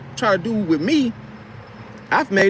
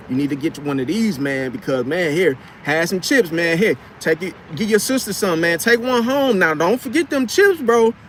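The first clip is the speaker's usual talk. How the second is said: playful pestering. Acted. Mechanic pushing snacks on an irritated customer, pestering that rises in pitch. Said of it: "I'm gonna keep annoying him".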